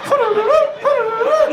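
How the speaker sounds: high, singsong tootling flute noise; flute imitation. Entranced man humming a singer's flute tune, mock tootling. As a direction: hum it like a snake charmer's flute. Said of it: "and you get up like".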